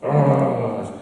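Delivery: mock exasperated "argh"; imitated grunt. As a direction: imitate his wordless grumble. Repeats the man's wordless reaction.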